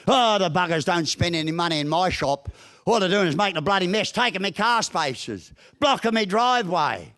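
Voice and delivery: grumbling shopkeeper, lightly imitated; a mild send-up of a habitual complainer; mock griping. Shopkeeper complaining about festival visitors, lightly mocked griping. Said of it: "something else to bitch about".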